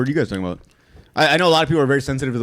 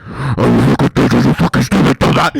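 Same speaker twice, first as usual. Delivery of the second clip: mock yelling; 4 semitones lower, 6 dB louder than usual. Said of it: "I used to be like".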